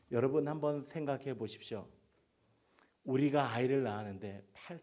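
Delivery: high, loud exhortation; preaching exhortation. Real, not acted. Preacher challenging the congregation, loud call. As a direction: press the point hard.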